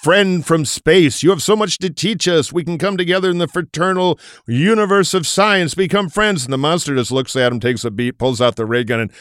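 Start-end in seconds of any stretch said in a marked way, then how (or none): 0.0-6.4 earnest professor. Retold or imitated. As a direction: greet the alien with solemn hope. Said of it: "the professor walks up to the big monster and says".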